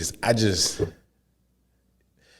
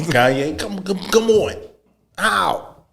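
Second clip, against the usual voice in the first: much higher, laughing put-on voice; mock exec pleading; 9 semitones higher, slower than usual. Adidas boss pleading with Kanye in the meeting, laughing put-on voice.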